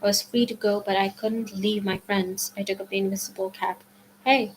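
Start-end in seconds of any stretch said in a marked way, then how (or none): 4.2-4.5 sharp call to get attention; shout. Acted. Percy calling the Furies to face him, a sharp shout. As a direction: yell it out to draw them.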